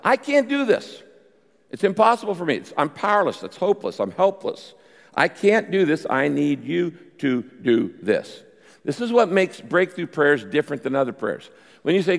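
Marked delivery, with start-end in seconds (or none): 0.0-8.4 higher pleading prayer, rising to helpless; voiced prayer. Preacher acting a desperate plea to God, pitched high. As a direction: cry out as if at the end of your rope. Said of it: "You tell God".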